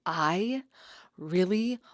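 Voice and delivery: high, loud wail building from a halting start; retold tearful order. Friend retelling her brunch order to the server, mock bawling. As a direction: imitate breaking into sobs while ordering, slowing as it climbs. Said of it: "And I start bawling".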